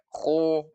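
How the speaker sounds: "Kho" with lips pushed forward into a round o; over-round the lips on "Kho"; bibir monyong. Shown as a demonstration. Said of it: "apalagi sampai monyong-monyong". ("Kho" dengan bibir dimonyongkan)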